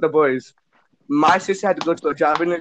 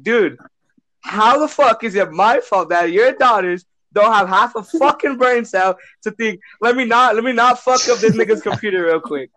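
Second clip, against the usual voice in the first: retold screaming match; 4 semitones higher than usual. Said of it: "me and her are screaming at each other".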